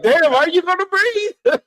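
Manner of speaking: high, squeaky mock-worried parent voice; mock alarmed parent. Parent hearing a toddler stop breathing mid-tantrum, high mock alarm. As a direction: play a parent startled by the pause in the crying.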